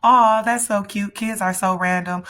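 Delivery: high, loud mock "aw"; amused cooing onlookers. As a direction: coo it like a charmed bystander. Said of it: "everybody around is just kinda laughing like".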